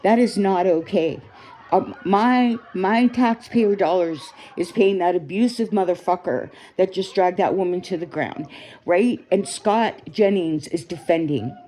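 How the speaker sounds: outraged. Real, not acted. Ranting at the video of the woman dragged to the ground, heated. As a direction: let the outrage spill out as you watch.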